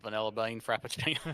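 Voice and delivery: put-on slipping Aussie accent; Australian accent. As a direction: attempt Australian and lose it midway. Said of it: "I kinda lost it there".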